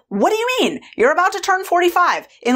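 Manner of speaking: high-pitched, exasperated disbelief; incredulous. Retold or imitated. Food controller to the woman asking her age, incredulous. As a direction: throw it back high, as if the question is crazy. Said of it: "looked at me like I was crazy".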